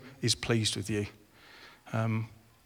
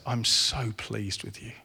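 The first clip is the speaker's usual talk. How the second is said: soft, slow tender reassurance; 2 semitones lower, 5 dB quieter, slower than usual. Acted. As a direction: say it slowly and softly, like a father to a child. God repeating affirmation gently.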